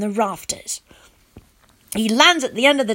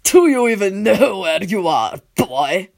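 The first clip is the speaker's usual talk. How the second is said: uncaring; 2 semitones lower than usual. A narrator's reading. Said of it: "like he doesn't really care".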